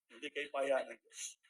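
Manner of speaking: hushed slow reaffirmation. Real, not acted. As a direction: let it sink in slowly. Testimony climax, repeated.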